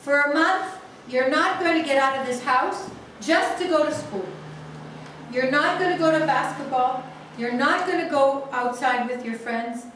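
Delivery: father shouting punishments at his son, loud and high; angry scolding. Retold or imitated. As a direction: lay down the punishment in a rage. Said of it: "the father gets even more angry".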